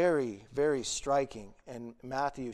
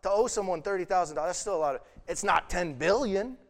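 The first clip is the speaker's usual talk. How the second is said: louder, higher and quicker, pressing the point; emphatic; 5 semitones higher, 8 dB louder, faster than usual. Real, not acted. Preacher to congregation, insisting loudly. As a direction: hammer it home that it's still a lot.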